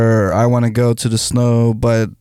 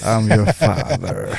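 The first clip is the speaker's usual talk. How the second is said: Darth Vader voice; 5 semitones lower, 4 dB quieter than usual. Pretend. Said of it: "want the kids to call him Darth Vader".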